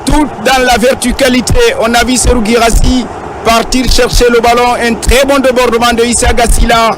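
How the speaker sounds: high, lively replay analysis; excited sports commentary. Real, not acted. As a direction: still buzzing after the goal. (analyse du ralenti, voix haute et enjouée)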